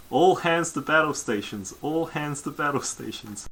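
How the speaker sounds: lightly voiced ship alarm announcement; automated announcement. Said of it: "an automated voice says".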